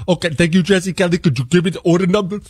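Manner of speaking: lightly voiced phone agent. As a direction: mimic the confused support rep. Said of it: "this is how the conversation goes".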